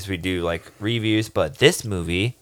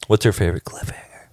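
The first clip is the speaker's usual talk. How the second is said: whispered question. Acted.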